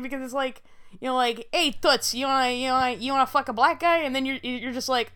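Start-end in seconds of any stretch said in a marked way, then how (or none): 1.5-4.0 a hint of old Brooklyn bus driver accent; lightly voiced old-time Brooklyn accent. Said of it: "has the accent of a seventy-year-old white bus driver".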